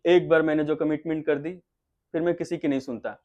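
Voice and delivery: low steady film-dialogue delivery; one emotion, low and weighty. Shown as a demonstration. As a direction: let the line sit low and firm. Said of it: "ये एक emotion हो गया".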